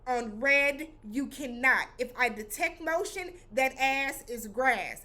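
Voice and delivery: high, emphatic robot announcer; hammed-up little robot reading rules. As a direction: recite the rules in a high-pitched doll-robot voice. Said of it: "the little robot was like".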